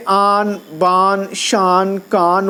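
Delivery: "آن، بان، شان، کان" each ending in a fully sounded n; slow list of آن، بان، شان، کان with crisp final n; clear final n. Shown as a demonstration. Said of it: "جب نون صاف پڑھا جائے".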